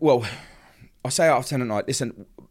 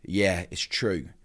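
slow, drawn-out, unconcerned reply; blasé; 4 semitones lower, much slower than usual. Retold or imitated. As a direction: imitate a blasé officer confirming it. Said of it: "blasé".

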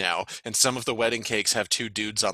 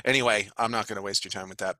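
normal talking voice

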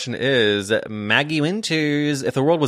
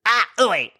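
mock failed scream; 10 semitones higher than usual. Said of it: "she goes like".

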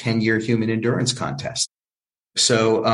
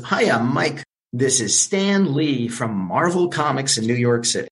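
exuberant; 3 semitones higher than usual. Retold or imitated. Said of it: "this exuberant male voice".

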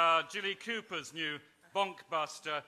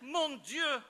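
mock gasp; 7 semitones higher than usual. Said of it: "she gasped".

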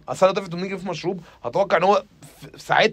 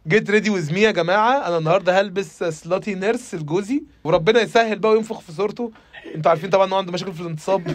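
influencer parody; 2 semitones higher than usual. Retold or imitated.

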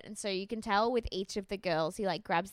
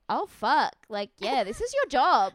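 louder mock-awed outburst; retold amazed reaction; 3 semitones higher, 8 dB louder, slower than usual. Viewer reacting to the contestant's catwalk strut, retold amazement. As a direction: exclaim it as if suddenly impressed.

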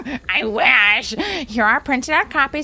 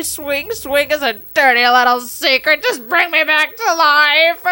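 crying out; 3 semitones higher, 4 dB louder than usual. Acted. Emo lyrics mashup, crying out.

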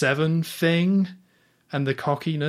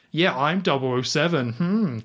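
lightly mocking a smug show-off; cocky boast with smug little hums; cocky and smarmy; 4 semitones higher than usual. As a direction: imitate someone a bit too pleased with themselves. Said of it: "really cocky and smarmy".

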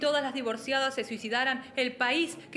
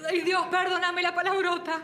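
pleading to God; 4 semitones higher than usual. Acted. Asks God to forgive the swearword.

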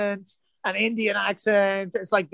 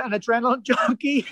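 laughing admission; 5 semitones higher than usual. Real, not acted. Amused confession about the crew.

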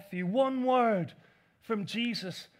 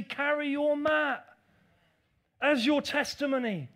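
preaching exhortation; 5 semitones higher, 6 dB louder than usual. Acted.

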